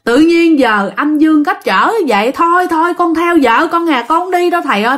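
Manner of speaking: high, plaintive retold plea; imitating tearful begging; insistent begging. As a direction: implore the master to let you stay. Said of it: "Mà năn nỉ quá trời".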